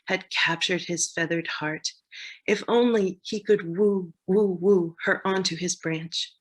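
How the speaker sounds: storytelling poetry reading; playful, measured recital; poem narration. Acted. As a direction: narrate a light comic tale in verse. Reads own comic poem.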